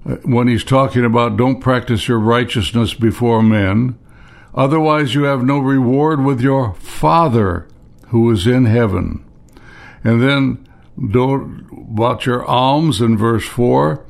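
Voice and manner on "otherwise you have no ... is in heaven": Father set apart and leaned on; stress on Father. Shown as a demonstration. Preacher points congregation to the word, stress on "Father". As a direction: lean on "Father" with a falling tone. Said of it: "I'm emphasizing the word Father".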